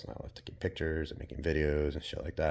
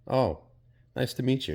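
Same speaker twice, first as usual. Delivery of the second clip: mock casual greeting; 2 semitones higher than usual. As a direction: toss off a polite small-talk hello. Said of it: "just a casual".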